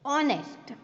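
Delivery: "ઓનેસ્ટ" starting on the O vowel; silent H. Shown as a demonstration. Teacher introducing the example word, "ઓનેસ્ટ" with silent H. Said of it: "અહીંથી ઉચ્ચારણ થાય".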